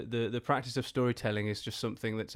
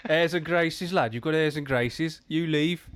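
hammed-up Black Country scolding, louder and higher; mock Black Country; 5 semitones higher, 6 dB louder than usual. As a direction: tell him off like a broad Black Country relative. Mock family telling him off.

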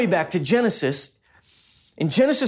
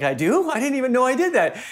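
mock-embarrassed, rising higher as it goes; lightly imitated sheepish surprise; 5 semitones higher, faster than usual. Wife learns of her phone habit from husband, embarrassed surprise. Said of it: "she was kind of embarrassed".

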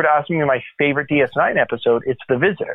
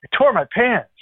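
higher, hammed-up sheepish confession; mild comic embarrassment, voiced higher; sheepish admission; 10 semitones higher than usual. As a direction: play the embarrassed officer lightly. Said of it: "He goes".

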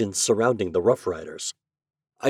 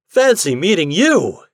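higher, louder and slowed, full of glad surprise; glad exclamation; 7 semitones higher, 8 dB louder than usual. Acted. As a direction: greet an old friend with a glad cry. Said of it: "he exclaimed".

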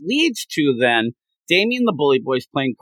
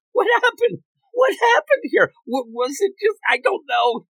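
very high, squeaky mock bewilderment; acted confusion. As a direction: play someone suddenly lost and baffled. Acting out dazed, confused character.

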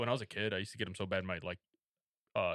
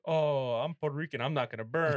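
higher, louder, overconfident boast; cocky aunt voice; 4 semitones higher, 5 dB louder than usual. Retold or imitated. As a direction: brag like someone sure she's immune. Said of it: "she was like".

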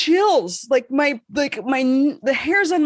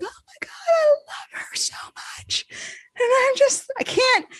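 gushing fans; 12 semitones higher than usual. Retold or imitated. Friends gushing over singer.

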